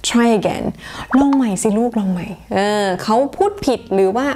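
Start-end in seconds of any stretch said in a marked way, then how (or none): 0.1-0.6 gently encouraging teacher; encouraging smile. Shown as a demonstration. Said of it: "ต้องพูดแล้วก็ยิ้มด้วยนะคะ". 1.2-2.3 put-on smiling teacher urging a child on; encouraging smile. Shown as a demonstration. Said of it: "ต้องพูดแล้วก็ยิ้มด้วยนะคะ".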